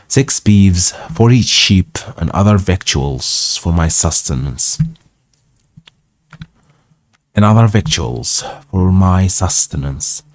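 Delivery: measured read-aloud narration; story narration. A narrator's reading. Reading an old travel tale aloud, story narration.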